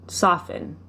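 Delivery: ordinary talk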